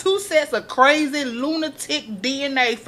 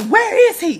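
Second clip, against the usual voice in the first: high mock demand; 10 semitones higher, 4 dB louder than usual. Olivia demanding from her mom.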